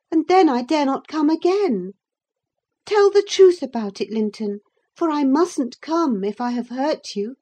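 urgent and imploring; pleading girl. A narrator's reading. Cathy pleading with Ellen and Linton, high and urgent.

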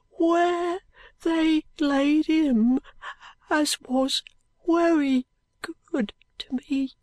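wery said with a W for very; high, weak boy says wery good. A narrator's reading.

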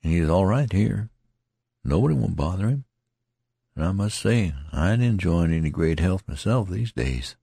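a weak man making light of it; lightly voiced worn-out soldier; tattered soldier.

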